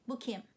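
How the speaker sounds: Bu kim with kim carrying the rise; stress on kim. Shown as a demonstration. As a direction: hit kim at the end. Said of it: "can you hear it".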